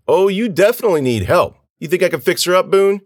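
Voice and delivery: high, loud sneering taunt; mock the plea, pitched high; mocking jeer. A narrator's reading. Dweez mocks the girl to his friend, jeering.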